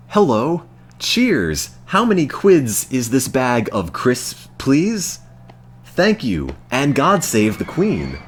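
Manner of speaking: hammed-up British accent, high and bright-eyed tourist politeness; over-the-top British accent from an American trying too hard to fit in; fake British accent. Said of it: "the most obviously not British person imaginable".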